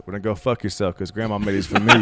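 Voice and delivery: put-on cocky kid zinger; gleeful retort. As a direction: slam the punchline home. Punchline grandson retort.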